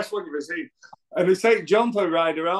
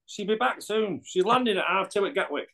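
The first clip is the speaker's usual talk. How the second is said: imitating Frank; 4 semitones higher than usual. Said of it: "everything you say to Frank".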